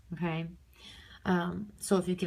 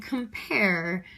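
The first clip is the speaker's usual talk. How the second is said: compare, drawn out on the second syllable; light com, long strong PARE in compare; stress on PAIR. Shown as a demonstration. Teacher sounding out compare, second-syllable stress. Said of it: "I stress the pair".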